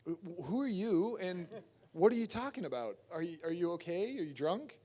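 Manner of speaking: mock incredulity. Actor questioning a stranger's casting offer, mildly baffled disbelief. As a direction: question them as if they're crazy.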